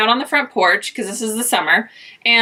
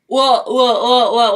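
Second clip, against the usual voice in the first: backtracking; slower than usual. Retold or imitated. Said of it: "like, backtracking".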